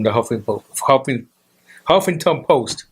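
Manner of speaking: "Huffington" broken off, then attempted whole; stumbling pronunciation. Real, not acted. Host fumbling the newspaper's name for his co-host, stumbling pronunciation. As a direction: trip over "Huffington", restarting it. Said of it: "my English messed up sometimes".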